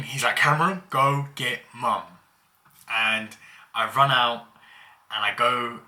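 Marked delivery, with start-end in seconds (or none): 0.4-2.0 imitated yell, higher and louder; mock scream. Hurt brother sending sibling for mum, mock scream. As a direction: retell a hurt kid's shouted order. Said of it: "he's screaming out".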